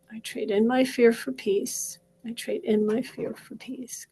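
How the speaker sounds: steady, rhythmic repeated affirmation; guided affirmation. Acted. Coach leading viewers through tapping, calm chant.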